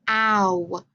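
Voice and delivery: "ow" modelled, a glide from a to oo; diphthong sound demo. Shown as a demonstration. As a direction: sound out "ow" as one gliding vowel. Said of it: "it moves those sounds quickly together".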